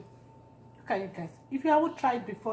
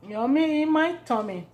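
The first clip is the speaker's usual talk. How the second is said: delighted; 3 semitones higher, 4 dB louder than usual. Real, not acted. Tasting food.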